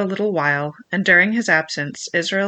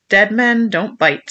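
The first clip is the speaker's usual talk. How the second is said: grim slow pronouncement; 3 semitones higher, 5 dB louder, slower than usual. Acted. Quoting Flint's grim rule.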